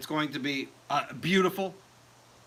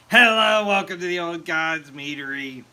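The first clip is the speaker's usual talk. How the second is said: loud bright opening hello; host greeting; 4 dB louder than usual. Acted. Greeting stream viewers to the meadery, loud host call. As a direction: welcome viewers like a show host.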